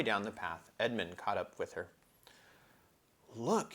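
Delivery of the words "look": higher, eager exclamation; great excitement. Acted. Edmund spotting the shadow, excited higher cry. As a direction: point it out, thrilled. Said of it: "he said in great excitement".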